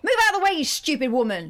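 angry posh southern English outburst; posh southern accent. Retold or imitated. Cross driver to man blocking her car, posh southern accent. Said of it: "you did it in a posh southern accent".

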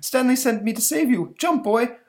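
high, loud cartoon monster; goofy monster. Monster urging the boy to jump, high and loud. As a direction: boom it out cheerfully.

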